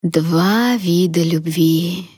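put-on slow, fading old woman; dying grandmother, drawn out; frail old voice. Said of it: "проговорила Эстелла".

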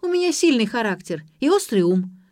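high, loud, affronted cries; indignant shout. A narrator's reading. Granddaughter called a weakling by grandmother, shouting high and indignant. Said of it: "закричала Ксюша".

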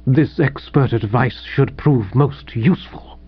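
understated, sour sarcasm; bitter. Acted. Rejected writer acknowledges the editor's advice, mildly bitter. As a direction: deliver the thanks with restrained bitterness. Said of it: "said the bloke Waterbury bitterly".

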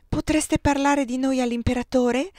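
lifted, keen and hopeful; excited exclamation. A narrator's reading. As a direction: burst out with an excited plea. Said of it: "esclamò eccitata Madame Lefebvre".

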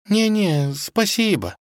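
breezy princess; light offhand decline; casual refusal. Acted. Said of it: "непринуждённо сказала она".

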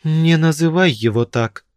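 a hint of a stern dead woman. A narrator's reading. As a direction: scold him firmly. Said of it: "строго сказала мужчине какая-то покойница".

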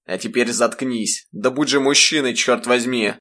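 an angry father's stern rebuke; angry scolding. Acted. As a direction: bark at the boy to man up. Father berates crying son.

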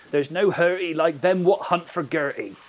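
put-on rustic Mendips country accent; lightly acted Mendips forest-folk accent. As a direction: quote it as a Mendips local saying. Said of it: "great up until your accent".

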